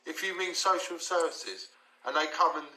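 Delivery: a touch of a parent setting him straight; mock stern warning. Dad warning his son about social services, lightly stern.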